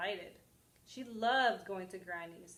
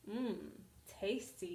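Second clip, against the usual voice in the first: savouring wolf; 5 dB quieter, slower than usual. Acted. Wolf savours his meal.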